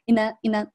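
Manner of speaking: "in an" joined as "i-nən"; linked, weakened. Shown as a demonstration. Teacher demonstrates liaison, "in an" run together weakly. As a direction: link in to a weakened an. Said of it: "这里有一个连读".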